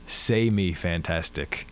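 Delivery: put-on slow, low Jamaican accent. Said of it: "in a very thick Jamaican accent".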